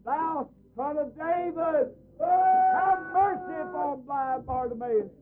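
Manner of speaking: slow, high pleading cry. Acted. Blind man calling to Jesus for mercy, slow high cry. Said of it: "he began to cry out".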